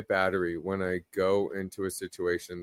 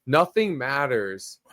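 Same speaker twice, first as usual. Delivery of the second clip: sincere; 3 semitones higher, slower than usual. Real, not acted. Slow earnest message.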